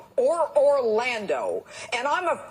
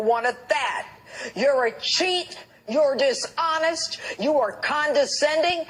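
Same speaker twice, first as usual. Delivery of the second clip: a political commentator, answering Hillary's insults, fires back accusations with rising anger; heated accusations; 4 semitones higher than usual. Real, not acted. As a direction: lay into her one charge after another. Name-calling rant at Hillary.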